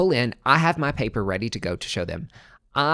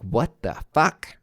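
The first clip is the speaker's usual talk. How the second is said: slow, drawn-out disbelief; stunned listener; 3 semitones higher, slower than usual. Retold or imitated. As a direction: drag it out like a shocked listener. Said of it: "I told you you'd be like".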